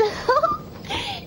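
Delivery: high-pitched amused laugh; a high, giggly burst of laughter. Acted. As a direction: laugh high at your own joke. Anna laughs at her joke.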